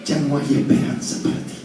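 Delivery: unvoiced, hushed whisper of the enemy. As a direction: whisper it like a tempter in the ear. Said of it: "El enemigo, ¿sabe qué te dice?". (el enemigo susurrando al oído)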